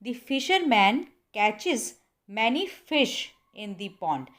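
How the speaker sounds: "fish" said slowly and firmly; slow correct model, "fish" stressed. Shown as a demonstration. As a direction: punch the word "fish". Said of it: "आपने बोलना है". ("fish" पर ज़ोर देकर बोलें)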